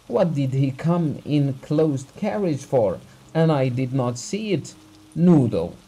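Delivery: angry self-reproach. Acted. Abugin raging at his own blindness.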